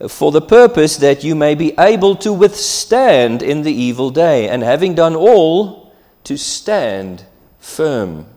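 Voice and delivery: loud reading, slowing right down on "to stand firm"; emphatic scripture quote. Retold or imitated. Preacher reading Paul's answer, loud then slowing. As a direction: declare the verse, then brake hard at the end.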